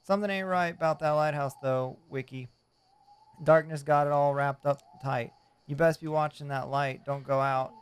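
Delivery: lightly voiced old fisherman; a hint of a salty old sailor; gruff old fisherman. Voicing fisherman NPC dialogue.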